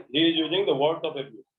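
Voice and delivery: very slow, each word set apart; slow model sentence. Shown as a demonstration. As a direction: dictate the correct form slowly. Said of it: "जबकि होता है". (धीरे-धीरे सही वाक्य बोलना)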